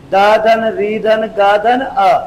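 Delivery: spelled out piece by piece, very slow; slow dictation. Shown as a demonstration. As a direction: dictate each part slowly for notes.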